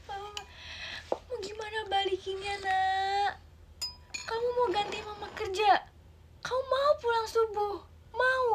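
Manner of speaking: tearful mother. Acted. Mother tearfully asking child who will repay the money, high crying plea. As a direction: sob out how tired you are.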